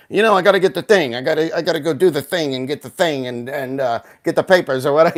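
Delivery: hammed-up wise guy from Goodfellas; Goodfellas mobster. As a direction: imitate a movie mobster rambling. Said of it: "talking like he's right out of Goodfellas".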